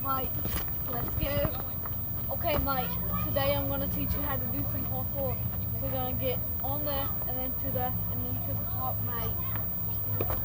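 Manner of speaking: a kid's mock Australian accent, teaching parkour; lightly done Australian accent; put-on Australian accent. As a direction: play an Aussie parkour coach. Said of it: "He has this Australian voice".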